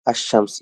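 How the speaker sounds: "আশ-শামস" with doubled sh instead of l; silent lam. Shown as a demonstration. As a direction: hold the sh in "আশ-শামস". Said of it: "আল উচ্চারণ না হয়ে".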